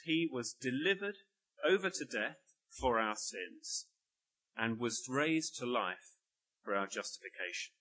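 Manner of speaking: slow, measured reading of the verse, weighing each phrase; a preacher slowly reading the verse aloud; slow scripture reading. Shown as a demonstration. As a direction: read it slowly, phrase by phrase, leaning on "for". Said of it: "Let me read".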